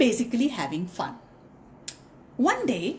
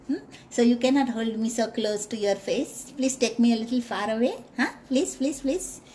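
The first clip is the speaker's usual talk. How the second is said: pleading mouse. Acted. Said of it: "So the mouse said".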